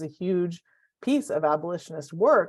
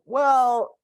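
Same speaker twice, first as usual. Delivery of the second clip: acted objection; 7 semitones higher, 7 dB louder than usual. Acting everybody's objection.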